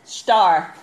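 stopping the barking dog with a loud call. Real, not acted. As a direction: call sharply across the room.

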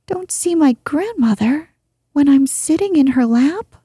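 put-on a little girl shocked he can't see; the princess exclaims, unable to believe it; astonished exclaim. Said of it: "exclaimed the princess".

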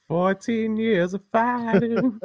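very high, very slow epic narration; dramatic movie trailer voice. Pretend. Mocking the friends' endless karate fight, slow and hammed-up epic. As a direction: draw it out like an anime epic.

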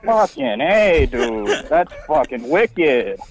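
put-on slow, drawn-out Boston accent. Prank caller answering an outrageous insult, slow Boston accent. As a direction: stretch it out like a Boston dude. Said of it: "a Boston accent sort of midway through".

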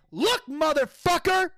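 re-enacted furious confrontation; retold snapping. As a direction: snap at him, each word drawn out. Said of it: "I fucking snapped".

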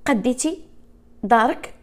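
usual speaking voice

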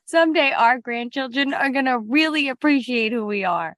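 fake-crying pride; mock-weepy hoarder; mock tearful. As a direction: sniff it out like a sentimental old relic.

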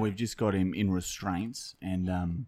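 lightly put-on cop, matter-of-fact; police constable act. Fake constable reporting an arrest to the prank victim, deadpan.

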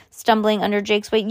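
ordinary delivery, nothing marked

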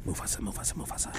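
breathy whispered chant of the name. Acted. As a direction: whisper it like the hyenas. Hyena whisper quoting Lion King.

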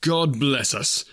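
slow, gentle blessing; closing the story with Tiny Tim's words, slow and gentle. Acted. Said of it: "as Tiny Tim observed".

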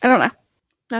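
whisper yelling. Real, not acted. Bursts loud after whispering.

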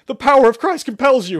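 very high, loud shouted chant. Acted. Shepard chants at gunpoint, shouting. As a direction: shout the chant at the top of your voice. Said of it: "much more loudly".

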